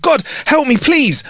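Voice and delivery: high-pitched mock panic; acted cry for help; panicked shout. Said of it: "He panicked and shouted".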